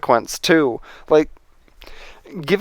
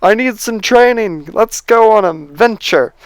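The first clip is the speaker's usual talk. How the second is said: mock Finn yell; 6 semitones higher than usual. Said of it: "Finn could have just been yelling at Rey, going".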